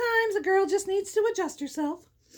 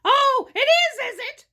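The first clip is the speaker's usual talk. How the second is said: gloating troll; 7 semitones higher, 7 dB louder than usual. A narrator's reading. Troll answering the middle-sized goat, menacing relish. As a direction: pounce on it as the troll, slowly. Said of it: "said the troll".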